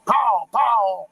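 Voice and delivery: imitated gunshot. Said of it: "why would you make the pow sound".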